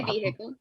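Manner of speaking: "vehicle" as VEE-hick-ul; vehicle with sounded H. Shown as a demonstration. Admitting to the same habit, "vehicle" with the H sounded. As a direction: keep the H audible in "vehicle". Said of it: "I say vehicle".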